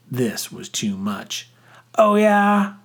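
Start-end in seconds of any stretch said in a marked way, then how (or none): 2.0-2.7 loud, high challenge; shouted comeback. A narrator's reading. Boy losing the argument, shouted comeback. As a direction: shout it back defiantly. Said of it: "I shouted".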